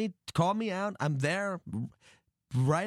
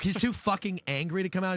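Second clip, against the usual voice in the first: higher-pitched, disbelieving retort; mock-outraged disbelief, pitched up; incredulous echo; 6 semitones higher than usual. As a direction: throw the excuse back as an outraged question. Throws manager's reply back in disbelief.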